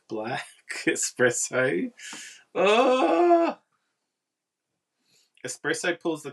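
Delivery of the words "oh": high, loud sudden "Oh!"; a sharp squeal of realization; surprised exclamation. Real, not acted. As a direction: burst out as it clicks. Sudden realization about espresso.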